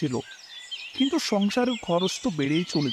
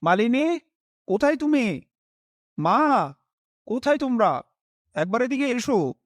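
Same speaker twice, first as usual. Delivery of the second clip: calling out; 5 semitones higher than usual. Acted. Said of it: "ডাকতে শুরু করলাম".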